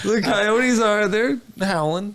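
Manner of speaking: slow, loud drawn-out howl. Pretend. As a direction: stretch the words like a howling coyote. Mimicking howling coyotes.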